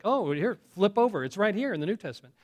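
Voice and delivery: mock cheerful pointing the way; bright fast helpful voice; eager helpful reader. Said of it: "is like".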